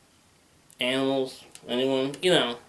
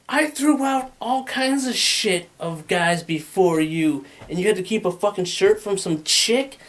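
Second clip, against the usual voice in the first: mock angry rant; 4 semitones higher than usual. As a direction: rant like a betrayed girlfriend. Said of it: "she's like".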